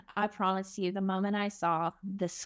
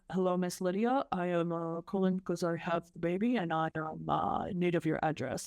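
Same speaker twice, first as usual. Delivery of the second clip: put-on light African accent, measured and polite; 3 semitones lower than usual. Investigator calling about the baby, light African accent. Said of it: "he had, like, this accent".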